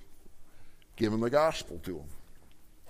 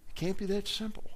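incredulous echo; 8 semitones higher, 4 dB quieter than usual. Retold or imitated. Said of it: "here's what the person said".

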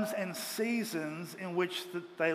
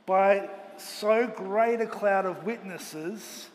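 slow scripture reading; much slower than usual. Acted.

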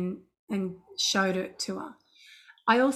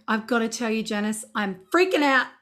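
retold panic; 3 semitones higher, 4 dB louder than usual. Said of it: "I was scared out of my wits".

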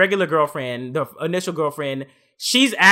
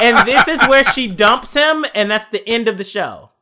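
louder laughing quote; 4 semitones higher, 4 dB louder than usual. Retold or imitated. Predicting the breakup, louder laughing quote. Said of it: "I was like".

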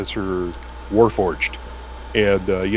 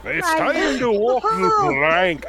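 pirate voice; much slower than usual. Pretend. Pirate line after request.

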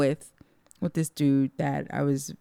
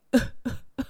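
high, voiceless mock sobs; little sobbing gasps, put on; imitated crying; 8 semitones higher than usual. Storyteller mimics the crying man, mock sobbing. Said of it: "He's crying".

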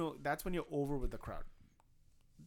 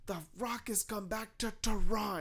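light imitation of a wrestler; The Rock promo; 6 semitones higher than usual. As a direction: tease the crowd with the pause. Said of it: "He's like".

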